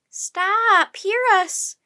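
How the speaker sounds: high, loud cry; shouted demand. A narrator's reading. Annie demands that the crew hear them, shouting. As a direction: shout out to halt a crowd.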